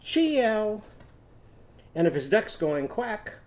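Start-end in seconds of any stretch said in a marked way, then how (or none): 0.0-0.8 mock cat meow. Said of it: "what's Chauncey's cat gonna say?".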